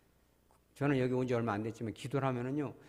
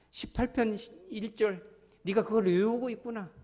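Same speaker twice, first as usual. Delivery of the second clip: voice of God; 4 semitones higher than usual. Acted. God speaking tenderly to the praying believer. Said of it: "성령이 힘있게 내려요".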